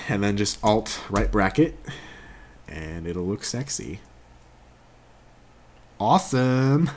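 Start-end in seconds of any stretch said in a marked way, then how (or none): 6.0-6.9 excited. Real, not acted. Pleased exclamation.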